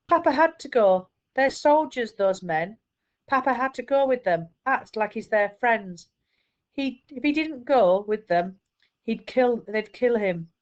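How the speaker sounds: mother telling her son why his father left; upset mother. Acted. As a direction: explain it to your son fighting panic. Mother voiced, explaining through tears.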